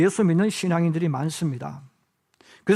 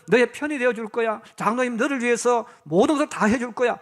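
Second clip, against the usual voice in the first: encouraging. Retold or imitated. Adult gently encouraging a child to visit the pastor. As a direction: reassure the child kindly. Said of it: "이렇게 말해야 되잖아요".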